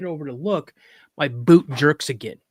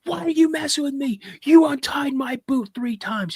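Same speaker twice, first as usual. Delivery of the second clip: put-on very high, strained kid's protest; upset accusing; 11 semitones higher than usual. Boy accuses dad of untying his boot, upset protest. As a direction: accuse him in a pitched-up mock outburst.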